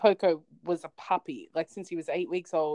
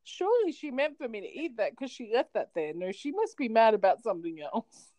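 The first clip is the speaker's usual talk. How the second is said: worried dog voice; 4 semitones higher than usual. Pretend. Dog fearing mummy is mad.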